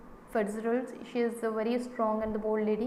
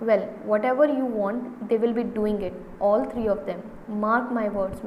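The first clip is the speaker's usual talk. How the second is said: impatient; 4 dB louder than usual. Acted.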